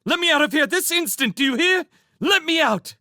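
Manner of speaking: high, loud and fast furious demand; angry trapped mouse maid. Acted. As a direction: shriek to be let out. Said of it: "she battered and tugged at the bars".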